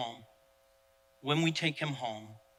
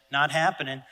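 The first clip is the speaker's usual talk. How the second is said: loud, emphatic dismissal; loud verdict; 8 dB louder than usual. Retold or imitated. To his reflection in the mirror, a loud verdict. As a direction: declare it flatly done, full volume.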